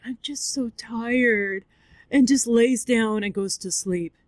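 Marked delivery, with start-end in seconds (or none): 0.0-1.6 slow, lightly voiced tired dog; weary dog. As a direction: drag it out like a worn-out dog. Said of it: "And the dog's like".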